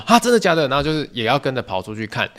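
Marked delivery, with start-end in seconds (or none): 0.1-0.7 high, loud mock disbelief; surprised disbelief. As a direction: gasp out the news as if shocked. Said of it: "其他三个人就说". (高声又大声的惊讶)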